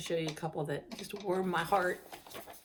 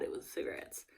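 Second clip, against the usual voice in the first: whispering; 5 semitones lower, 10 dB quieter than usual. Real, not acted. Aside about past smoking.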